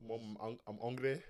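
lightly mimicked Brummie whine; Birmingham accent. Showing how Brummies talk, mock Birmingham accent. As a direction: do a Birmingham kid, rising on "hungry". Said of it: "That's how they talk".

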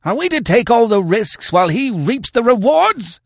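a hillman howling his grievance at the chief; shrill, furious howl of complaint. A narrator's reading. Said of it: "he howled".

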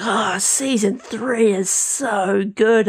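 slow, drawn-out gushing fan; lightly voiced enthusiastic barber; imitating the barber. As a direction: gush slowly like a barber who loved it. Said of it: "and he was like".

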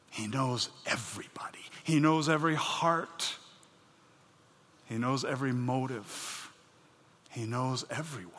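soft, low intimate preaching; near-whisper of awe; hushed. Real, not acted. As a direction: draw the congregation close. Hushed emphatic sermon lines.

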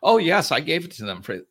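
high, loud offended yes; mock-affronted protest; indignant yes. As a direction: bristle at being doubted. Client insisting in acted exchange.

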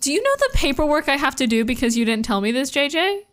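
quick, mildly exasperated imitation; mock exasperation. Hotch to J J about paperwork, mildly exasperated. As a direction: rattle it off like a fed-up boss. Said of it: "so exasperated".

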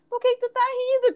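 put-on high-pitched quote of a baffled boyfriend; boyfriend's puzzled question. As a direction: imitate him asking, pitched well up. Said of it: "Aí o Vitor olhou pra mim".

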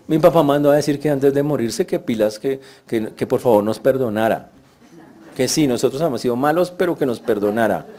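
lightly voiced guilty brothers begging; slight wheedling plea for mercy; a hint of nervous pleading; mock pleading brothers. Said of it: "eso básicamente es lo que están diciendo".

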